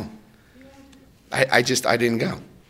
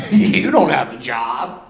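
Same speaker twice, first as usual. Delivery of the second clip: slow, looking-down-on-you put-down; mock the sponsor's condescension; slow condescending dig; slower than usual. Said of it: "he said it condescending like that".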